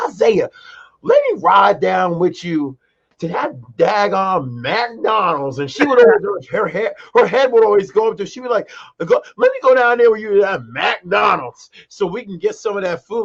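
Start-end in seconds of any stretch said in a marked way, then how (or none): 0.1-5.6 put-on higher, slower, eager call of an old grandma; mock grandma begging for a ride; imitating grandma. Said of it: "She was like". 9.0-13.2 higher, eager grandma voice; grandma's energy popping. Retold or imitated. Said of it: "her energy would pop".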